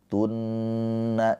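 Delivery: Tunna with a long humming nn; don't rush the nn in Tunna; unhurried held nun. Shown as a demonstration. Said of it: "jangan buru-buru". (Tunna dengan dengung ditahan, tidak buru-buru)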